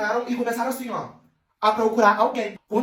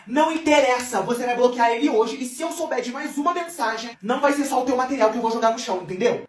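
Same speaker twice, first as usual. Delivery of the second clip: heated threat, pitched up; angry girl; 4 semitones higher than usual. Acted. Nervous girl threatens Lívia, heated and high. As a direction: lay down an angry ultimatum. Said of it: "Aí, a nervosa falou assim".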